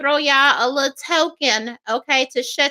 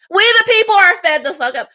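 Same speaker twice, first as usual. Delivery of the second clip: louder repeat; 4 semitones higher, 4 dB louder than usual. Real, not acted. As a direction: punch it louder and higher.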